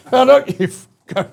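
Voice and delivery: a high, loud burst of pulpit cursing; mock swearing vicar. Imagined vicar cursing at the congregation, high loud mock outburst. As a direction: bark it like a vicar losing it mid-sermon. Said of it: "he starts effing and blinding".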